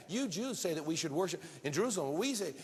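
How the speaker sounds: mildly mocking comeback; sarcastic attack. Preacher voices the caught-out woman attacking back, sarcastically. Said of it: "she began to sarcastically attack him".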